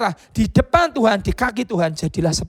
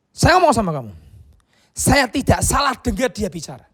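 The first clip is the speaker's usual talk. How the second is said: raised, loud and slowed; insistent shout; 3 semitones higher, 4 dB louder than usual. Retold or imitated. Evangelist insisting he heard God.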